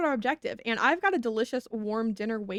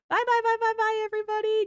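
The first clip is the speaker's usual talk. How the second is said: cheery farewell; 10 semitones higher, faster than usual. Real, not acted. Sing-song farewell to chat.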